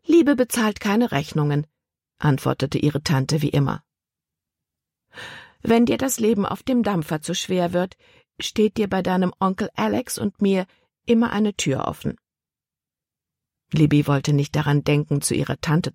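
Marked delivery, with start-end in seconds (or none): 0.1-1.7 a higher, prim aunt voice, lightly done; a hint of a disapproving old aunt; lightly voiced stern aunt. Aunt lecturing her niece about marriage, lightly voiced, higher and prim. 5.6-12.2 a higher, prim aunt voice, lightly done; a hint of a disapproving old aunt; lightly voiced stern aunt. Aunt lecturing her niece about marriage, lightly voiced, higher and prim.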